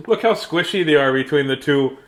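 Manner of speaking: talking through laughter; laughing. Real, not acted. Reader shows the picture, laughing. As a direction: giggle while pointing it out.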